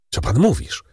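frightened woman crying out, lightly voiced; trembling cry. A narrator's reading. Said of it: "Zawołała rozdygotana pani Danglars". (lekko drżący okrzyk)

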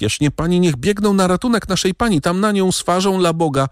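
put-on high, pleading child's voice, rushing; a frightened farm boy begging for help; tearful peasant boy. A narrator's reading. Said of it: "zalaną łzami".

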